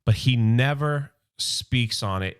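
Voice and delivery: lightly voiced solemn leader; solemn Prime voice. RC quoting Optimus Prime.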